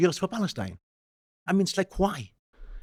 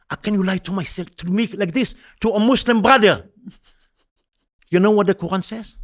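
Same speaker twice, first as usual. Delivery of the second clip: retold reproach; 4 semitones higher, 4 dB louder than usual. Retold scolding of the caller.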